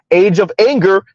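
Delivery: "anger" given clear emphasis at the end; stress on anger. Real, not acted. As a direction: lean hard on "anger". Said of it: "emphasis on the word anger".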